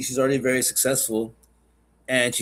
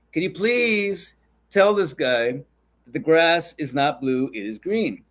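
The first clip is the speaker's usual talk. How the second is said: slow, drawn-out plea with mild exasperation; exasperated tiger; 3 semitones higher, slower than usual. Acted. Tiger appealing to the lion, mildly exasperated. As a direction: stretch out the appeal word by word. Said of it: "He goes".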